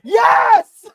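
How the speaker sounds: high, loud cheer of joy; excited shout. Real, not acted. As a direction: yell it out in triumph. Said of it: "I apologize for being so loud".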